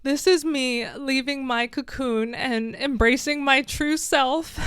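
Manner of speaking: pressing on through real tears; steady yourself, still choked up; really emotional. Real, not acted. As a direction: pitch lifting toward the end as emotion rises. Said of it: "I got really emotional at the end".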